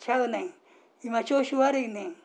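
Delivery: casual Osaka-dialect denial; demonstrated Osaka-dialect reply. Shown as a demonstration. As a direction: answer back with an Osaka lilt. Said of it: "大阪弁のお話".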